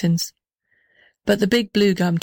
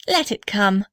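sighing. Acted. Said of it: "sighed the little red house".

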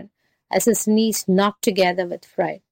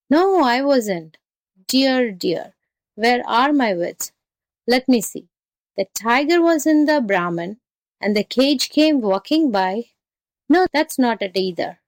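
higher, lilting voice of feigned confusion; flustered jackal; 3 semitones higher than usual. Acted. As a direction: fuss helplessly, as if your wits are lost. Jackal plays flustered, muddling the story.

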